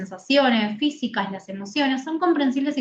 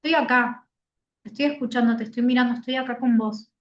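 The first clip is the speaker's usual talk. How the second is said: reassuring validation demo. Shown as a demonstration. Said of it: "escuchar y observar".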